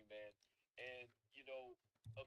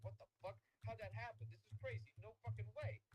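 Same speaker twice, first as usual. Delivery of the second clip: higher, louder burst of astonishment; acted disbelief; 6 semitones higher, 4 dB louder than usual. Voters seeing the overnight election spike, acted disbelief. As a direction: react as if you can't believe the news.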